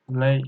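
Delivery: "Lei" with a falling fourth tone. Shown as a demonstration. Teacher showing learners "Lei" in fourth tone. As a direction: let "Lei" fall in pitch. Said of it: "fourth tone".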